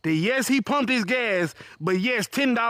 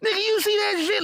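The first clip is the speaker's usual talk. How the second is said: higher, incredulous "you see that"; knowing look; 10 semitones higher than usual. Retold or imitated. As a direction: share the disbelief. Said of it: "she looking at me with that".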